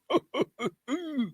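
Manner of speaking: high-pitched trailing giggle; high laughter. Real, not acted. Laughing at his own impression, high giggle. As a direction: giggle high after your own joke.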